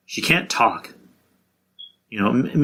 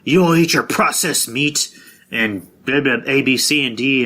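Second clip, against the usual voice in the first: higher, slow, preachy vegan scolding; preachy hippie lecture; 4 semitones higher than usual. Retold or imitated. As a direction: lecture people like a smug hippie. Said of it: "he's telling people".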